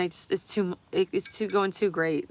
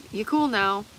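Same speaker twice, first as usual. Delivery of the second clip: loud taunting; 3 semitones higher, 6 dB louder than usual. Pretend.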